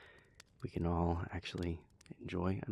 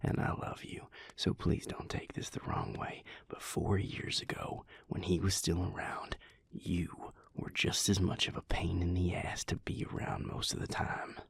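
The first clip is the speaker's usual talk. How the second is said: gentle whisper. Acted. Speaker whispers to Vincent, gently telling a hard truth.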